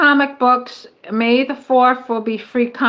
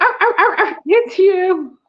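high, mechanical, robotic toy-dog barking; 7 semitones higher than usual. Imitating a robotic toy dog that knows who it is: imitating a robot dog barking. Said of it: "Mary's fake dog knows it's you. He's like".

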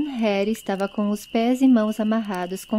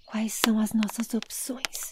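whispered, much quieter; 7 dB quieter than usual. Aragorn asks Haled a question as stones are thrown, whispered. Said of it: "Cochichou Aragorn".

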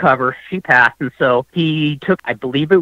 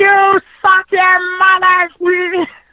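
put-on very high, dragged-out crude yell; 4 dB louder than usual. Retelling a passenger's crude outburst from a moving car: imitating his crude cry. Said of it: "doing his, ... cry".

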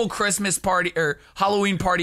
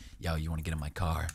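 put-on dropped, lower-pitched voice; 14 semitones lower, 11 dB quieter than usual. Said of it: "your voice for some reason dropped".

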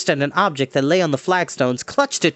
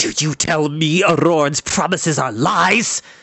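spoken as a hiss. The chief steward, seated on the throne and fingering the crown, hisses. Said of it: "The chief steward hissed".

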